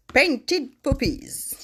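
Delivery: slow careful English, "Painted Poppies" in a French-tinged English accent; English accent attempt. Real, not acted. Crafter proudly tries the English stamp name, slow English accent. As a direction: sound out "Painted Poppies" slowly in your best English accent. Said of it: "Mon anglais s'améliore".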